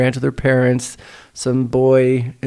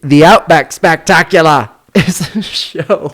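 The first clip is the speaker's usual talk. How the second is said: mock Australian accent; slower than usual. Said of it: "I brought this accent".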